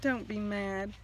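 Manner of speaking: a touch of fear, begging gently; frightened begging. Acted. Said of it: "The frightened Easter egg begged".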